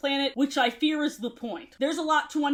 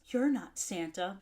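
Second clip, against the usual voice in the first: breathless hush; 5 semitones lower, 6 dB quieter than usual. Acted. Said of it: "Cheyenne's breath caught".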